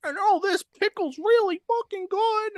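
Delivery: very high mocking whine; squeaky voice mocking a crybaby wrestler; mocking impression.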